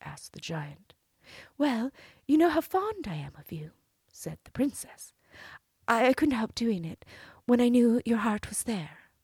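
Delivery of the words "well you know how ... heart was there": high, sweet princess voice; cartoon princess. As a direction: play the innocent princess. Princess flattering the giant.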